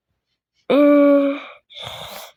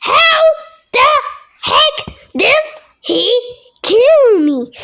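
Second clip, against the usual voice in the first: laugh-crying; 5 semitones higher, slower than usual. Real, not acted.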